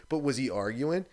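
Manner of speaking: ordinary talk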